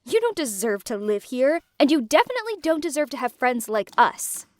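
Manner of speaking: bitter, cutting accusations; Aaliyah's angry confession. Acted. Aaliyah confessing to Lou, bitter and a touch angry. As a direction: spit out the betrayal. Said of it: "Aaliyah interrupted us".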